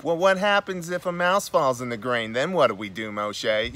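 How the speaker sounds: put-on kvetch it in a New York Jewish accent. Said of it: "this New York Jewish voice".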